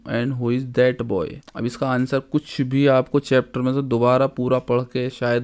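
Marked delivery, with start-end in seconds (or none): 0.1-1.3 slow careful translation for students; slow dictation pace; slow and clear. Shown as a demonstration. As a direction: spell it out slowly for a class. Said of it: "slow translation for students".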